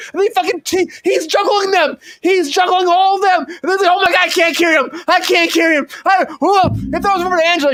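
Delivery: high, giddy, runaway riff; manic excited rant. Acted. Signing off to viewers, a wild high excited riff. Absurd story keeps escalating.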